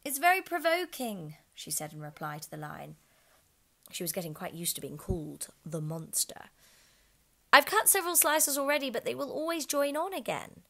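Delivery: high, loud Alice voice. Acted. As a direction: complain brightly as Alice.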